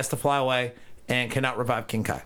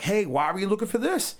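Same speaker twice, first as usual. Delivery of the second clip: building mock scolding; 10 semitones higher than usual. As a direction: scold her, building to a shrieking yell. Beerus scolding Bulma, rising.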